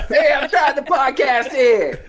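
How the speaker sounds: put-on slow cranky old man voice; old man complaint. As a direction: complain like a grumpy grandpa. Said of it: "Stick your old ass out the window".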